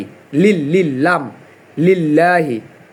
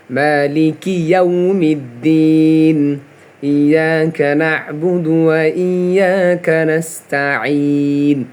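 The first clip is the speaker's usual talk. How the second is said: Quran recitation. Shown as a demonstration. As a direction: chant each verse in long, sung phrases. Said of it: "আমি পুরোটা তেলাওয়াত করি".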